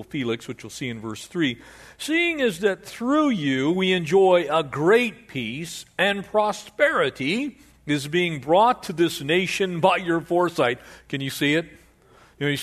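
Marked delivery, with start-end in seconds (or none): 2.0-10.8 flattering orator. Acted. Preacher voicing flattering lawyer.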